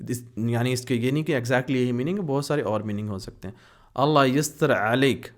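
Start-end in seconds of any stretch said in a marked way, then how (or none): 4.0-5.3 اللہ یستر علیک said slowly, stress on اللہ; slow model. Shown as a demonstration. Teacher slowly repeating the blessing for students. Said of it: "ہم کہتے ہیں".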